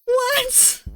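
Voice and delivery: high, startled What?; surprised cat owner. Acted. Player voicing the woken owner, a high surprised yelp. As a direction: yelp it like you just woke.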